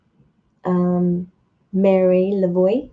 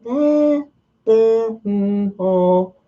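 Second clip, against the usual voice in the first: hesitant wavering little noises; acted lukewarm doubt; unsure, noncommittal; much slower than usual. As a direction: hem and haw, unconvinced. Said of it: "if you don't have that, "Hell yes, I own this," and it's like".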